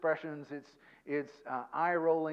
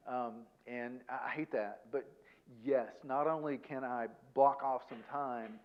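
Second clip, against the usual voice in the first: owning it gently; 3 semitones lower than usual. Shown as a demonstration. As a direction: take responsibility tenderly, no defending. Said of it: "antidote to that is taking responsibility".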